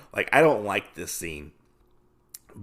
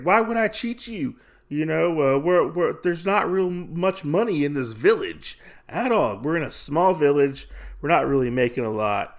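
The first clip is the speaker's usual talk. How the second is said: higher, mildly defensive retelling; acted protest; 5 semitones higher than usual. Gambler denies cheating his partner, protesting. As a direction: protest innocence in a raised pitch.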